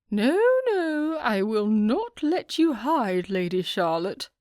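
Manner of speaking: won't let her slip away, teasing but firm; insistent hostess. A narrator's reading. Lady Mayfair stops Charlotte leaving.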